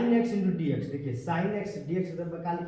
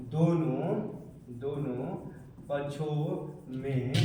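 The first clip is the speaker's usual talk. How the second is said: slow dictation; 3 semitones lower, 4 dB quieter, slower than usual. Real, not acted. Dictating words while writing them.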